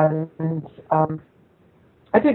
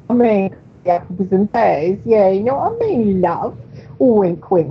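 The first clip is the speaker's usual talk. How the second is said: mock Cockney. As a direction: imitate chummy Cockney street talk, stretching the vowels. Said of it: "talking like that".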